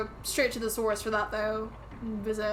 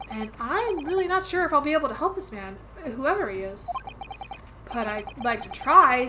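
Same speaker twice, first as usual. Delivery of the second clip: lightly voiced characters, earnest and worried; game characters read aloud; 3 semitones higher than usual. Player reading the young lawyer and his assistant, lightly acted.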